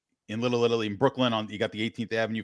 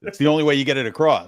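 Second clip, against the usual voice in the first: a hammed-up Brooklyn twang, a bit louder; bad New York accent; 4 semitones higher, 7 dB louder than usual. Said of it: "the worst New York accent I ever heard".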